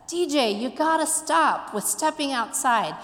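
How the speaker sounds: lightly acted insistent teacher; teacher's admonishment. Teacher scolds student in retold story.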